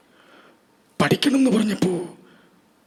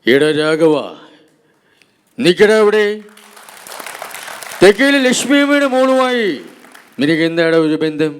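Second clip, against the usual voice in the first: Madhu impression. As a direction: scold Raghava like an old film star. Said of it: "മധു സാറിന്". (മധുവിന്റെ ശബ്ദത്തിൽ ദേഷ്യത്തോടെ ശകാരം)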